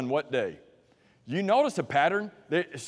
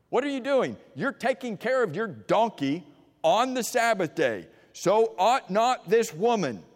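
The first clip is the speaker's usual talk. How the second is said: forceful rebuke; 5 semitones higher than usual. Acted. Jesus' rebuke, preached with force.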